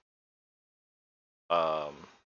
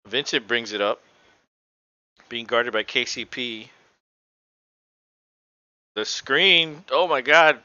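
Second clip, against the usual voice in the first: game call bursting louder on the big moment; live play-by-play; 5 dB louder than usual. Real, not acted. Commentator follows Miami's possession live, excited play-by-play. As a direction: call the action as it happens, jumping at the wild pass.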